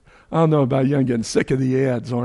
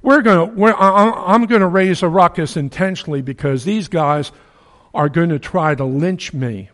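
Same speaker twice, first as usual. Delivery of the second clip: a touch higher and louder, scheming; Paul plotting to stir up the crowd, mildly raised; Paul's scheming aside; 4 semitones higher, 4 dB louder than usual. Retold or imitated. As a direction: let them in on the plan. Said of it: "and say".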